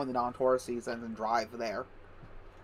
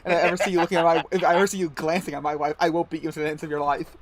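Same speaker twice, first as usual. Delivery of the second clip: hammed-up threat, easing off toward the end; mock yelling; 3 semitones higher, 4 dB louder than usual. Joking as the host threatening his lodger, mock yelling. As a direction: play a jealous boss laying down threats. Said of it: "it's just you yelling".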